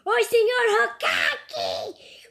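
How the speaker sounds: loud, very slow greeting; drawn-out excited greeting. Pretend. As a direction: stretch the hello out loud.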